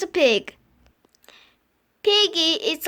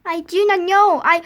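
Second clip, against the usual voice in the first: upset; 5 dB louder than usual. Acted. Upset sneezing character.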